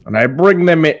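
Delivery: lightly put-on Irish accent; a hint of Irish brogue, hammed up; bad Liam Neeson impression. Mock Irish Liam Neeson taunting a cuckolded husband. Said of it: "worst Liam Neeson impression of all time".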